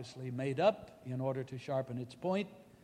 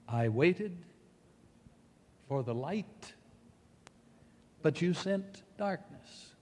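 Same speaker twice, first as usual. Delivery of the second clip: poignant cry. Acted. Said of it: "comes this poignant cry".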